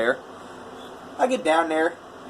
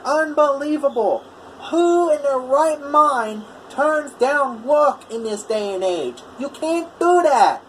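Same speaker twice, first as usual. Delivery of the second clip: high, drawn-out mock outrage in a thick Boston-like accent; imitated outraged proclamation; 10 semitones higher, slower than usual. Customer refused work complains to the whole neighborhood, imitated high-pitched outrage. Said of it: "like he's talking to everyone in the neighborhood".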